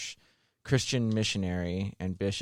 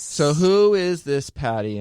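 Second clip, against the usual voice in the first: mock Irish; 7 semitones higher, 11 dB louder, slower than usual. Mock question in put-on voice.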